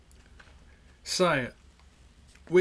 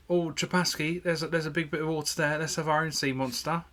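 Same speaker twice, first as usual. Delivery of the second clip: mock American accent; 2 semitones higher than usual. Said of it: "They don't, they don't talk like that".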